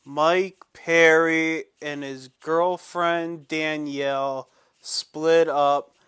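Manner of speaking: slow, hammed-up mournful announcement; milk the fake grief, slowly; mock sad news. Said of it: "It wasn't really that sad".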